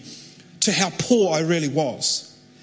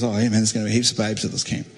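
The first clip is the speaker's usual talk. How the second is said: Brendan selling it; 8 semitones lower, faster than usual. Retold or imitated. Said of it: "He goes".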